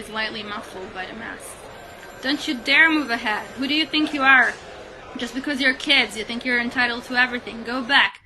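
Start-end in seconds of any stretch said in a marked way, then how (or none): 2.2-8.2 loud, indignant scolding from the crowd; retold angry shouting. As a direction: bark it at the kids like an annoyed stranger. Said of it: "people start shouting at us".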